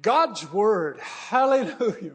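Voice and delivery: loud, drawn-out rousing cry; imitated preacher's roar. Imitating guest preacher who cheers you up, mock roar. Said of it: "she roars, she cheers you up".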